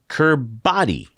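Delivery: "Kiribati" said slowly as kur-BAH-dee; spelling pronunciation. Real, not acted. Host reading the island name, "Kiribati" as kur-BAH-dee. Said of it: "No, it's pronounced Kiribati".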